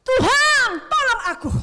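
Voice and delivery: high, very loud cry for help; shouted plea. Acted. Preacher acting Peter's plea to the Lord, very loud high shout. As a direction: scream it up to heaven. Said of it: "Kata-katanya gini".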